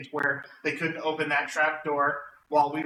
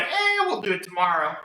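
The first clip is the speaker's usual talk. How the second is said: long, raised "eh", then brushing it off; mock nonchalance, pitched up; casual dismissal; 4 semitones higher than usual. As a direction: mimic the group shrugging off the job. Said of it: "genius idea of closing and going".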